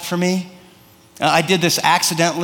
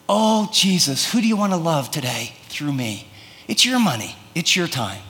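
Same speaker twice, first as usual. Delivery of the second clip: gentle prayer; 3 dB quieter than usual. Acted. Believer asking Jesus whom to love today, gentle prayer. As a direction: pray it gently, handing everything over.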